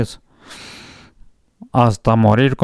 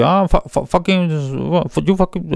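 higher, stammering mock English cursing; mock English insult; 6 semitones higher than usual. Retelling the boxer cursing his rival, mock stammering English. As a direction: stutter out the swear in broken English, pitched up. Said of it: "Pero lo dijo en inglés, así".

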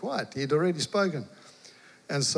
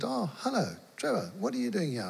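surprised neighbour; 8 semitones higher, 3 dB quieter than usual. Retold or imitated. Neighbour farmer opens door.

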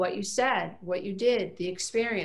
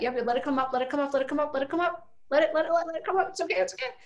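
rising, urging voice, faster at the end; higher and higher, then soothing; coaxing encouragement; 6 semitones higher, much faster than usual. Shown as a demonstration. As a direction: coax the feeling up and out. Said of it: "coaching people through meditation".

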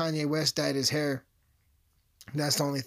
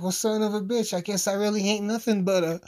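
resigned outburst; 6 semitones higher, 4 dB louder than usual. Retold or imitated. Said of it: "And I was like".

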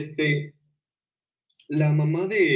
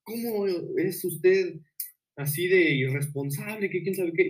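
teacher on the phone berating a mom, lightly mocked; mock yelling teacher; 5 semitones higher than usual. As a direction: ham up the teacher's shriek without volume. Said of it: "le estaba gritando".

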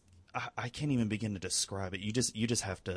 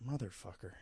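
muttered curse; 11 dB quieter than usual. Acted. Fan reacting to a favorite character's death, muttered curse. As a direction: curse softly under your breath.

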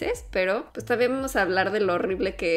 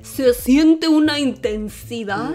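mock solemn quote; 3 semitones higher, 6 dB louder, slower than usual. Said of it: "al final acaba con".

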